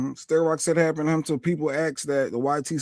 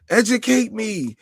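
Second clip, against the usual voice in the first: clueless white lady voice; 5 semitones higher, slower than usual. Retold or imitated. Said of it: "Sharon Osbourne type of".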